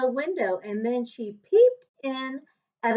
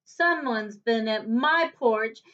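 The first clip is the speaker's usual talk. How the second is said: higher small bear cry, leaping up on "up"; a tiny bear crying out; squeaky wee bear, rising sharply at the end; little small wee voice; 5 semitones higher than usual. Acted. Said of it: "cried ... in his little small wee voice".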